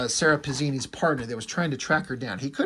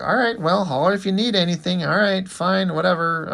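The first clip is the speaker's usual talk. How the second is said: higher-pitched, put-upon calling after someone; exasperated giving in; 6 semitones higher, 3 dB louder than usual. Retold or imitated. Partner calls through the door she slammed on him, exasperated. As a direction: raise the voice a little, mock exasperation.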